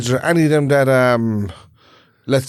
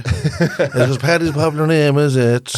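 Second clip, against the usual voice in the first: put-on Irish traveller accent; much slower than usual. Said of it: "is that a traveller doing a traveller accent".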